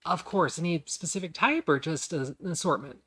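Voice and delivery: lightly voiced waitress taking an order; half-elf server. Half-elf server checks a customer's fruit order, soft obliging voice. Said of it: "she pivots around".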